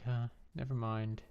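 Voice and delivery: lightly put-on British accent; a touch of British accent, playfully done. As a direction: quote the quitter in a mock British voice. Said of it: "did a British accent for that".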